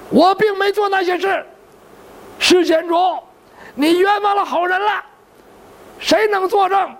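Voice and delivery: a cornered monk wailing that he's wronged; monk protesting innocence. Acted. Monk pleads innocence before the magistrate, high indignant wail.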